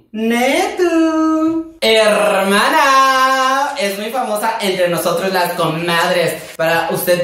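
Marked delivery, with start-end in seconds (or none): 0.1-1.7 mock sobbing. Mock crying over song lyric. 1.8-3.7 very slow, high, louder "Hermana"; dramatic call. Shown as a demonstration.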